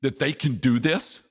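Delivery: high scornful questions; sneering incredulous taunt; mocking disbelief. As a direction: ridicule them as the mocking enemy. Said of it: "In effect, he was saying".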